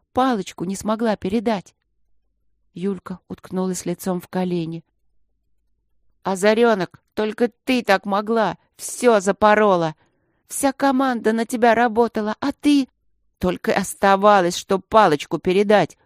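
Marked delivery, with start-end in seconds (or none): 6.2-16.0 loud reproachful scolding of a teammate; angry scolding. Acted. Team scolds Yulka for the lost relay, loudly. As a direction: tell her off hard, voice raised.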